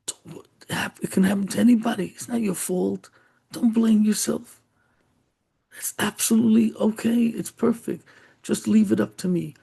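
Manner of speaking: high-pitched, earnest comforting; acted kind friend, voice lifted; sincere reassurance. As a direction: reassure him he is not to blame. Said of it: "he felt that the boy was so sincere".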